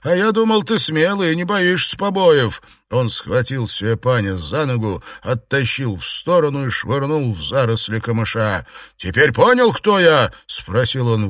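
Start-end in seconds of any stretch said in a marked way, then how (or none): 0.0-2.6 mocking sneer. Liu mocks Xuepan. 9.0-10.3 loud taunt. Acted. Liu taunts beaten man.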